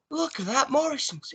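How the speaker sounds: high-pitched mock awe; imitated excited cry. Imitating the singer sighting a Morrison's, high excited cry. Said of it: "he starts screaming".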